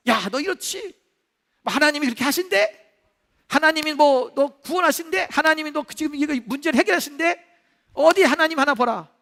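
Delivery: ordinary delivery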